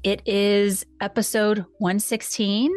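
creaky vocal fry from allergies; gravelly fried voice, allergies. Real, not acted. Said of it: "got that vocal fry going on".

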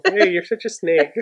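slow, amused line through laughter; playfully testing the new phrase; laughing try-out. Pretend. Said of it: "I'm gonna try that".

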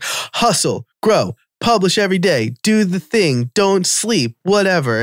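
high mocking hustle slogans. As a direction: rattle off hustle-culture clichés. Parroting hustle culture slogans.

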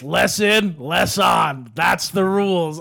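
dad laying down rules. Retold or imitated. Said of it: "And then he goes".

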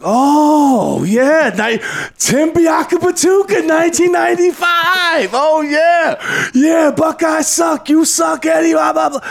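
high, loud mocking taunts from the stands; jeering student crowd. Rival students heckling a visiting coach, high mocking yells. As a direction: shout it like rowdy rival fans heckling. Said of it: "They're like".

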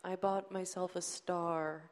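lightly sketch a gloomy sad-sack, slowly; Eeyore-like guy. Retold or imitated. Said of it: "he's kinda like Eeyore".

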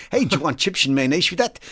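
hammed-up Dutch accent; jokey Dutch accent, playing it up for the live-stream crowd; mock Dutch accent. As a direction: lay on a comic Dutch accent. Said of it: "did a hilarious Dutch accent".

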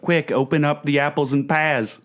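high, slow Cockney parody; hammed-up British urgency; mock British accent. Guest spoofing Nick's rhyming slang, mock British accent. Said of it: "other British slang".

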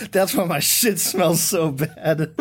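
slow, proud announcement through laughter; proud boast. Retold or imitated. Older kid boasting to his date, slow and proud. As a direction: say it like you're proud of it. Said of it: "like, so proud".

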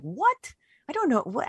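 high-pitched retold bafflement; baffled. Author lost over reincarnation topics, high-pitched bafflement. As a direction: squeak out total confusion. Retells own confusion at topics.

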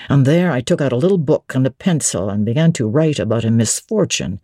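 a master speaking low and firm; Rochester's voice. Acted. Rochester tells fairy tale.

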